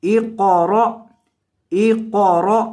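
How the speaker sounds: اقرأ with a thick qaf and a sharp jolt on the final hamza; heavy qaf, glottal stop. Shown as a demonstration. Teacher showing students how to say اقرأ, heavy qaf. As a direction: say اقرأ with heavy ق and a clipped glottal catch at the end. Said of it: "قاف کو موٹا کریں گے اور حمزہ کو جھٹکا".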